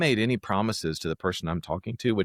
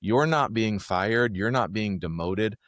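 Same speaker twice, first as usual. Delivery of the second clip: slow, steady reassurance; calm hostage negotiator; slower than usual. Shown as a demonstration. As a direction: spell it out slowly and calmly. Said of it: "take that off the table".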